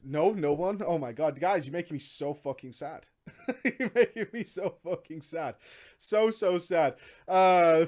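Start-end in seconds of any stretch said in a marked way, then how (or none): none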